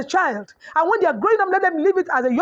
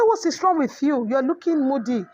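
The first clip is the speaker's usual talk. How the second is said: pressing question. Retold or imitated. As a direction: push her a little harder with the question. Mother repeating the question.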